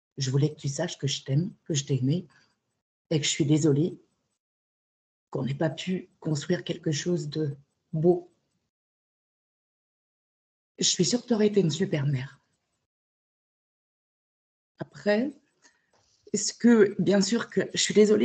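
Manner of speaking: tearful speech, crying through the words. Speaking directly to someone, crying while talking. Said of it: "je pleure. Parce que je suis très émue".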